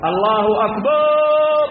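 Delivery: أكبر said as "أكبار", a long alif before the ra, called out loud; loud call with أكبر drawn to "أكبار"; faulty adhan demo; stretched akbar. Shown as a demonstration. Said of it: "فيمد الألف قبل الراء".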